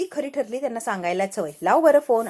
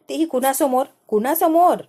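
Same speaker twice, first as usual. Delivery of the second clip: angry shout; 4 semitones higher, 5 dB louder than usual. Acted. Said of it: "Anika इतकी चिडलेली असते".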